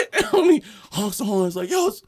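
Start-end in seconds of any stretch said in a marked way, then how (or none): 1.7-2.0 high-pitched impatient heckle; retold road-rage grumble, pitched up; loud, not yelling. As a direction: call it out loud, short of a yell. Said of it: "but he says it loud".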